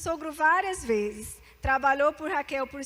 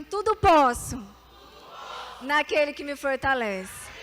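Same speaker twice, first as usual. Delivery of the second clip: proclaimed for repeating; 3 dB louder than usual. Shown as a demonstration. Preacher leads the congregation in a loud proclaimed verse. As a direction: call it out for the church to echo. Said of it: "Então repita assim comigo".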